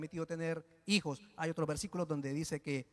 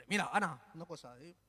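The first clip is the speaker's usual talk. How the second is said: cocky husband; 2 semitones lower than usual. Retold or imitated. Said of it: "un poco chulesca".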